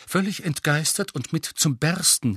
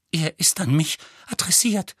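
zitternde Stimme; 5 semitones higher than usual. Acted. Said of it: "mit zitternder Stimme".

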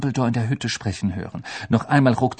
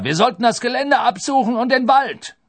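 loud, high, angry urging; irate shouted order; grousing executioner; 14 semitones higher, 6 dB louder than usual. A narrator's reading. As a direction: demand a search at full voice. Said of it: "raunzte der Henker".

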